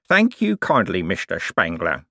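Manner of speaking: oily thanks with slurred sibilants; sly con man. Acted. Cribbins needles Moist, slurring.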